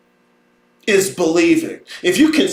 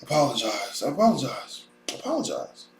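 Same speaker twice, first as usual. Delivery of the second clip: mock sulky apology; 7 semitones lower, 11 dB quieter than usual.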